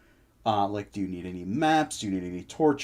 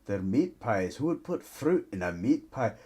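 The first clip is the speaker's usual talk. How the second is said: gruff dwarf. Acted. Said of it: "Why you sound so angry?".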